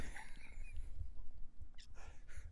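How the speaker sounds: soft, breathy laughing fit; laughter. Real, not acted. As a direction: crack up quietly, trailing on. Cracks up after the name mix-up.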